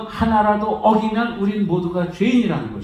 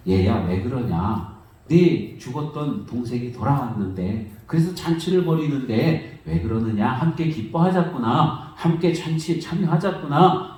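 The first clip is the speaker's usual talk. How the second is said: father's plea; 4 semitones lower than usual. Retold or imitated. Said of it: "하고 이렇게 말씀을".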